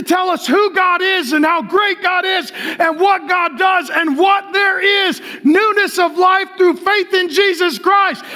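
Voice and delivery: yelling preacher on a roll; full-force preaching. Real, not acted.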